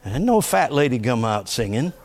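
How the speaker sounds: normal talking voice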